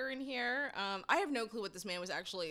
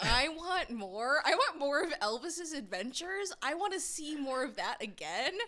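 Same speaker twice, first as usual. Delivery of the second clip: eager; 4 semitones higher, 3 dB louder than usual. Real, not acted. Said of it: "I'm gonna disagree with you".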